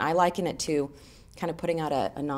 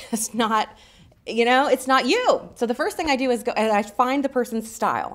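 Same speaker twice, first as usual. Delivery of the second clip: usual speaking voice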